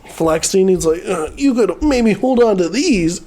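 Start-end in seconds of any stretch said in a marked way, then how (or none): 1.1-3.2 higher-pitched mock flirting; hammed-up sleazy offer; creepy come-on. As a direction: imitate an awkward creep flexing. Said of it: "He's just being super creepy".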